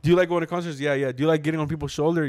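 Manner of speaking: lightly voiced sly suitor; sly questioning guy. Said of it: "he's immediately like".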